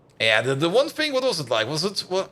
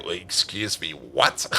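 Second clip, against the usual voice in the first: baffled; 13 semitones lower, much slower than usual. Retold or imitated. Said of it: "I was like".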